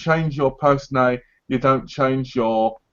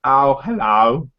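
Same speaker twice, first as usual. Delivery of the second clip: mock posh accent; slower than usual. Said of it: "change your accent too and be like this".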